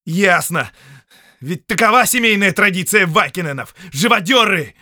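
loud, high, jeering shout; angry insult. Acted. Prisoner jeering at the count, loud angry shout. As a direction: hurl it back at him.

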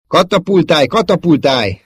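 loud, high, insistent plea; urgent command. Acted. Wingman urging a damaged pilot to eject, urgent. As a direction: urge your friend to bail out.

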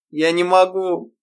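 высоко и медленно, со всхлипом; отчаянно, сквозь слёзы; всхлипывая. A narrator's reading. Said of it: "всхлипнула она". (Ирма всхлипывает, отказываясь извиняться)

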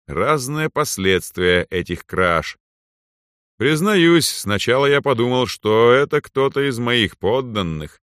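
proud overlord speaking down; arrogant lord. Acted. Narrator voices the lord.

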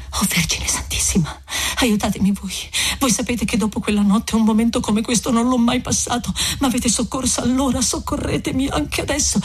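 hushed start, rising into an imploring plea; tearful prayer. Acted. Lucia praying to the Virgin Mary, hushed then imploring. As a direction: pray to the Virgin through tears. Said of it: "esclamò, giungendo di nuovo le mani".

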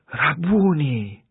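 high, very slow, drawn-out cry of recognition; the moment she knows him; joyful recognition. A narrator's reading. Maria îl recunoaște pe Isus. (strigăt lent de recunoaștere, mai sus)

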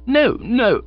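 high, gushing and teasing; hearty young woman's voice. Acted. Honoria teases Bertie about the rescue, high and hearty. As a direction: scold him fondly from above.

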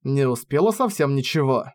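plain reading voice

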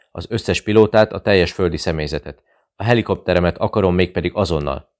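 forceful, urgent orders; loud command. Acted. Zilics orders the airport alerted, loud and urgent. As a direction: command it sharply. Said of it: "adta ki a parancsot".

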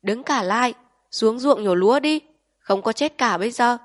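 loud, high barked command; bellowing order. A narrator's reading. District chief roaring at fleeing villagers, loud bellow. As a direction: puff out the chest and roar the order. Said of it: "gò ngực lên để gào".

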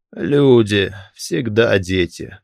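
slow, hollow voice of a corpse; otherworldly slow corpse voice; dead man. Acted. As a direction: speak like the calm dead. Dead man answers slowly.

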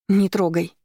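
wife shouting at her husband to stay back; mild shout. Acted. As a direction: push him off with the words. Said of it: "закричала я".

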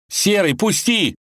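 громкий высокий крик, медленно; вырывается из лап волка; рвётся. Acted. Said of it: "рвался тот". (Иван рвётся из рук волка, кричит)

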